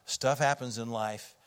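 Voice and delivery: calming. Retold or imitated. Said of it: "I calmed him down".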